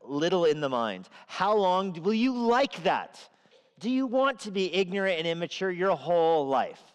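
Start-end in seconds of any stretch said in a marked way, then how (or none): 1.3-6.8 wisdom scolding. Acted. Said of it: "That's how wisdom starts her speech".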